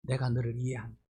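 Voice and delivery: lightly voiced tender Jesus comforting Peter; tender reassurance. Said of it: "이 눈빛으로 바라보는 거야".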